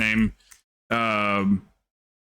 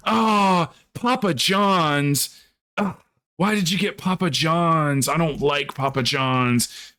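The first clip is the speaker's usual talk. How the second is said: mock whiny streamer; 5 semitones higher, slower than usual. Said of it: "she goes".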